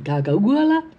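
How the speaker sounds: high, odd-voiced squeak; confused squeak. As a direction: squeak it out, baffled. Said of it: "farmer finally squeaked".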